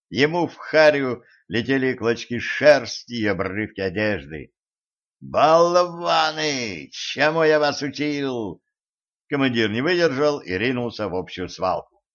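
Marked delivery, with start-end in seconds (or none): 5.2-8.6 furious scolding. A narrator's reading. Commander scolds team in brawl.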